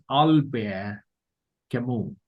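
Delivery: Albert Camus as "al-BEAR ka-MOO"; French pronunciation. Shown as a demonstration. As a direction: pronounce "Albert Camus" with silent final T and S. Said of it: "So I will pronounce it as".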